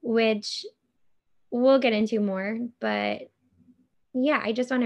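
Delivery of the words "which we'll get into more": raspy, slow, a bit louder; talking through a raspy throat. Real, not acted. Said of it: "here we go again with my raspy voice".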